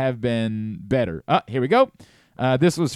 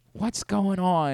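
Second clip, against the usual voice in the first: soft, slow impression, a bit high; Brian Windhorst; 5 semitones higher, slower than usual. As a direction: draw it out softly and slowly. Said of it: "it's soft for sure".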